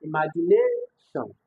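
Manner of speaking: slow "imagination", stretched out toward its end; stress on final syllables. Shown as a demonstration. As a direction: exaggerate the tail of "imagination", NA-TION. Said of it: "And E, I'll say".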